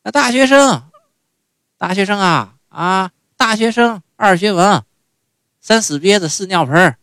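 put-on high, loud old mother's voice, drawn out; old Beijing mother rattling off a jingle; mother's reply. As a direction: mimic mom reciting a silly rhyme, high-pitched. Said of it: "您猜她怎么说呀".

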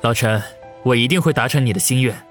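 quick, earnest vow; grave promise. A narrator's reading. Wang Yu promising to restore old Chen's badge, grave. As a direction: promise firmly, in a solemn tone. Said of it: "沉声地说道".

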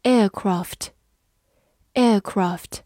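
very slow aircraft, aircraft; slow review. Shown as a demonstration. Teacher modelling the word slowly for learners. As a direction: draw it out syllable by syllable. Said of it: "美式发音，aircraft".

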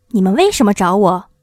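loud, commanding wizard's proclamation; lightly voiced imposing wizard; stern Oz. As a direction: announce yourself with solemn authority. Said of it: "一个严肃的声音".

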